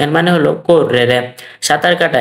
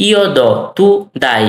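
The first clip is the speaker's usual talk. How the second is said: slow verb drill with gaps; measured language-teacher demonstration; slow model forms; much slower than usual. Shown as a demonstration. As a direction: set each short phrase apart for learners.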